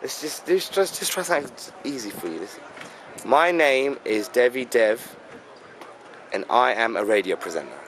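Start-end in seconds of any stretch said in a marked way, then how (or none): 3.2-7.8 English accent demo. Shown as a demonstration. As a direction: model the line for her. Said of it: "Now say that".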